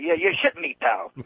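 gruff New England voice; scoffing local guy; New England accent. Retold or imitated. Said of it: "That's another term".

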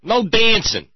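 high, loud mock sermon ban; mock preacher decree. Mocking NYPD as the Footloose preacher, loud high decree. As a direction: proclaim it like a stern preacher.

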